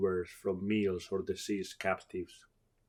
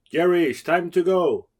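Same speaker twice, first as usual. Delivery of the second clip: a call, higher and louder; lightly gruff man; 8 semitones higher, 9 dB louder than usual. Acted. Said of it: "he spoke with a lightly gruff voice".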